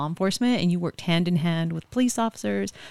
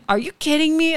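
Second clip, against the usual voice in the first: much higher, louder mock grandma disbelief; incredulous grandma; 10 semitones higher, 5 dB louder than usual. Grandma scoffs at her pale granddaughter, higher and louder.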